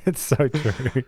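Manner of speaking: "It's so true" said through a laugh, slowly; laughing agreement with friends. Real, not acted. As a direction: chuckle the words out as you agree.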